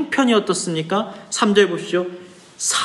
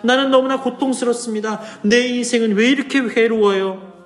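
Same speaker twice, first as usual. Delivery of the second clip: higher-pitched plea without added volume; crying out; 5 semitones higher than usual. Acted. Preacher voices the sufferer begging for release, crying out. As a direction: cry out to God in an acted, raised pitch. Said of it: "그가 지금 외치는 거예요".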